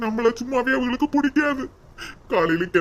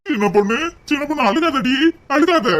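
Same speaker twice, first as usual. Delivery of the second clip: pleading husband; 3 semitones higher, 5 dB louder than usual. Acted. Husband begs crying wife.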